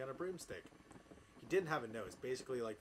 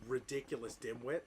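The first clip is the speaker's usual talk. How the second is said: cold anger; 3 dB louder than usual. Acted. Snape scolding the narrator with contempt, mildly angry. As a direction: read as a cold, lightly voiced scolding. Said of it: "Snape demeaned angrily in his cold voice".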